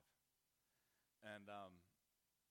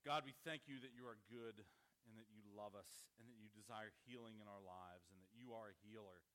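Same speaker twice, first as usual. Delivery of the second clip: closing prayer. Acted. Pastor leads closing prayer.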